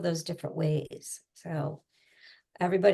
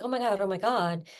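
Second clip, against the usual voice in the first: anxious hyper; faster than usual. Shown as a demonstration. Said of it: "So I would just start that way".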